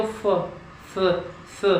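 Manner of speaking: फ puffed out as the faulty स; wrong ph sound. Shown as a demonstration. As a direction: show the airy mistake. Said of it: "वो ऐसे sound आएगी, वो भी गलत साउंड है।". (गलत फ जैसी फूंक)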